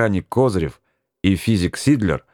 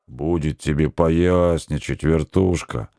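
good-natured bass rumble; 4 semitones lower, slower than usual. Acted. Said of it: "добродушно прогудел ... бас".

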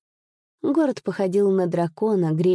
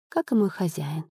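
ordinary delivery

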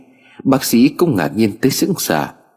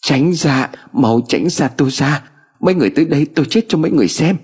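high, frantic pleading to stay away; panicked threats, rushing higher at the end; cornered girl wailing in panic; hysterical crying out; 6 semitones higher than usual. Acted. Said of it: "Miệng cô liên tục kêu".

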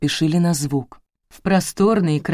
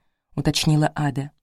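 usual speaking voice

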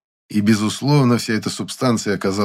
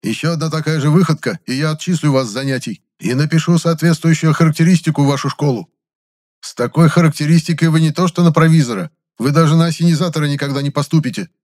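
loud, higher, raging lecture; furious scolding; 8 semitones higher, 5 dB louder than usual. A narrator's reading. The boss threatens expulsion, furious. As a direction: tear into him with threats.

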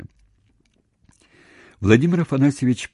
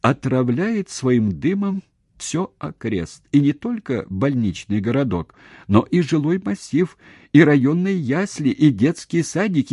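high, building list of accusations; mounting, high-pitched public denunciation; indignant tirade; 8 semitones higher, 4 dB louder than usual. Acted. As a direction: pile up the charges, rising louder. Acted indignant tirade at him.

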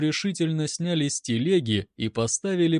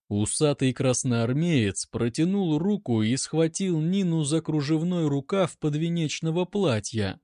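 usual speaking voice

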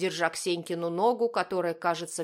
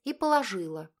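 put-on girl's voice; 2 semitones higher, 4 dB louder than usual. A narrator's reading. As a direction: chirp it proudly. Ksenka speaking.

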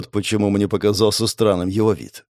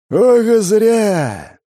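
higher, louder and drawn out, savouring the threat; menacing gloat; 10 semitones higher, 5 dB louder, much slower than usual. A narrator's reading. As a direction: let the grin become a snarl. Grin turning into a snarl.

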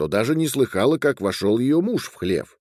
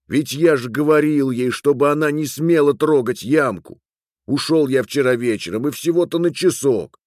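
higher, raised self-justifying voice; protesting excuse; 4 semitones higher, 3 dB louder than usual. Acted. Man explaining he forbade his wife, protesting. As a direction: plead your case insistently. Миловуш оправдывается перед Шигнаманушем.

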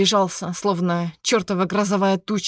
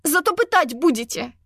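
high defiant shout; defiant cry; 6 semitones higher than usual. A narrator's reading. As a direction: fling it back at them. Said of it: "выкрикнула я". (вызывающий выкрик)

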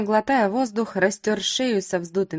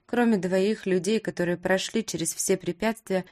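plain reading voice

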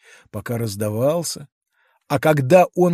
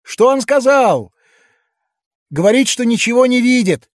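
higher, louder, agitated townsfolk; excited crowd voices; 9 semitones higher, 5 dB louder than usual. A narrator's reading. Crowd exclaiming about the giant, higher and louder. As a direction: call out like a stirred-up crowd. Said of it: "послышались возгласы".

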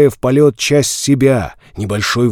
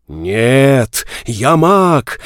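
shouting; much slower than usual. Acted. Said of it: "закричал я".

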